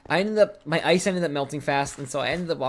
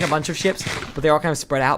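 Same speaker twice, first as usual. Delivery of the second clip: usual speaking voice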